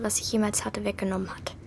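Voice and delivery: hushed sad. Acted. Martha erzählt vom Verlust.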